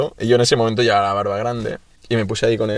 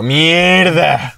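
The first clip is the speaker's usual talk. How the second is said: retold dismayed curse; 5 semitones higher than usual. Retold dismay at meeting police.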